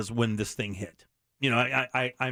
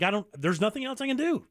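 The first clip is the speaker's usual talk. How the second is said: helpless retort; 8 semitones higher than usual. Retold or imitated. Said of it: "I'm like".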